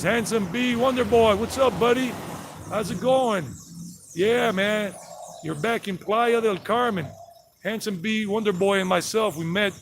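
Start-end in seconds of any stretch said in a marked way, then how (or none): 0.0-4.9 higher, bright hello to a pal; cheerful greeting. Real, not acted. Greeting his buddy Handsome B Wonder Boy, cheerful and higher.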